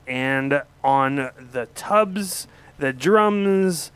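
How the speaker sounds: slow, stretched band intro; announcer intro. Acted. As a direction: draw it out like a stage MC.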